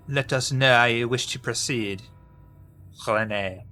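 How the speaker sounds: put-on amateur French accent, slipping at times. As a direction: attempt a French accent while reading a letter. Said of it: "without the French accent".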